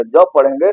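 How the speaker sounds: ज said as English z; z sound. Shown as a demonstration. Teacher telling students s reads as z. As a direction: voice the ज as a z buzz. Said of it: "इसको क्या पढ़ा जाएगा?".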